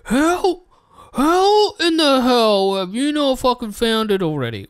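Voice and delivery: high, loud mock yell of an impatient viewer; parodying chat screaming at the streamer; mocking chat's screaming. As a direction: shout it as the fed-up audience. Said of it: "you guys are screaming like".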